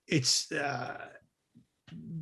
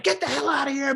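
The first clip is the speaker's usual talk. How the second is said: retold yell; 8 semitones higher, faster than usual. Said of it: "screaming and yelling".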